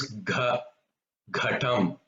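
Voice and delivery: "ghatam" with breath on the gh; aspirated gha. Shown as a demonstration. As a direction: push air out on the gh of "gha", "ghatam". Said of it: "the gha, that sound must come".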